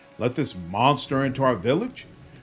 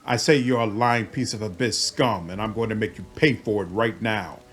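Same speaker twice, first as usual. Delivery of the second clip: angry guard threat; 5 dB louder than usual. Acted. Guard threatens before drawing blade.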